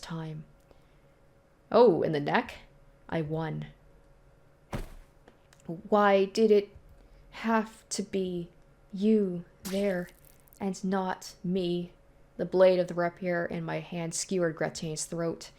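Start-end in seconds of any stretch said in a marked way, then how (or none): 5.7-11.9 slow, drawn-out grieving question; anguished lament. Acted. Hero over his dying friend, slow and anguished. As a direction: let each phrase hang in slow disbelief.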